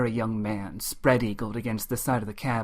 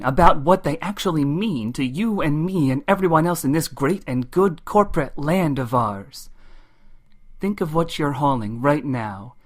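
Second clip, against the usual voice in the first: higher, rolling radio sermon; fired-up trucker orator; 5 semitones higher, 4 dB louder than usual. Acted. Ryder P. Moses preaching freight to friends and neighbors, fired up. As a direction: build into a rhythmic roll call of freight.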